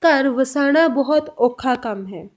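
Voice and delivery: slow, deliberate Punjabi lines; slow Punjabi model. Shown as a demonstration. Teacher to learners, a slow Punjabi model line. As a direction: give each word of औखा काम its time. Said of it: "तो पंजाबी में कैसे बोलेंगे?".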